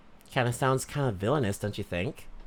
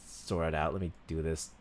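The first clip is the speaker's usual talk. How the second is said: put-on Valley Girl voice. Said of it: "ten minutes of Valley Girl".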